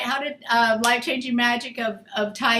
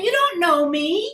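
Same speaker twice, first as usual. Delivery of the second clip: mock hurt pleading; 5 semitones higher than usual. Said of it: "It's like".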